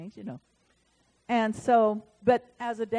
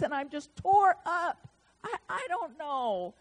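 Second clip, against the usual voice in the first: imitating her crying; 9 semitones higher than usual. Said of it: "she starts crying".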